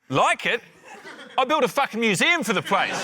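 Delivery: half-laughing outrage; laughing indignation. Real, not acted.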